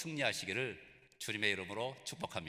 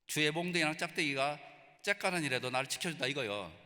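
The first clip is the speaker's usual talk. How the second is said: Jeolla dialect. Shown as a demonstration. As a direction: recite the psalm like a rustic Jeolla local. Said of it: "전라도 버전을 들어보십시오".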